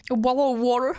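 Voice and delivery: laughing, hammed-up British accent; mock British accent. Shown as a demonstration. Wanting to sound like the Queen of England, laughing mock British accent. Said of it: "Pardon, c'est très mal dit".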